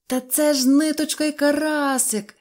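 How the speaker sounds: joyful shout. Acted. Neznaiko recognising his friends, joyful high shout. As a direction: call out in happy surprise. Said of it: "закричав він, зрадівши".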